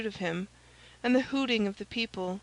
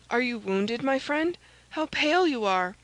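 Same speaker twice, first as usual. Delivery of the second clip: concerned; 3 semitones higher, 3 dB louder than usual. Acted.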